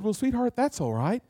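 imitating a mother's quiet comfort; gentle reassurance. Mother comforting her daughter who cried, soft reassurance.

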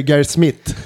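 "Gareth Smith" with hard t sounds, Swedish style; Swedish accent. Shown as a demonstration. Host showing the Swedish version of the name, Swedish accent. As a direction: say the name as a Swede would. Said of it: "in Swedish".

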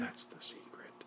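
hushed, secretive whisper; very soft, breath-only aside; confiding whisper. Pretend. Confiding a trick to daughter.

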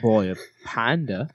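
deadpan Australian accent. Shown as a demonstration. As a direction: finish the line in Australian. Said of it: "We'll do it in Australian".

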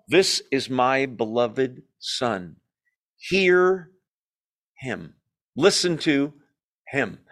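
slow, measured divine pronouncement with pauses; voice from the cloud. Acted. God speaking from the cloud to apostles, slow and weighty. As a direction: pronounce it solemnly, pausing before each "him". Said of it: "a voice speaks from the cloud".

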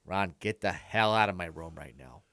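stern roommate with a Milwaukee accent. Shown as a demonstration. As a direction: order him out in a Milwaukee accent without shouting. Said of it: "I liked hearing him talk".

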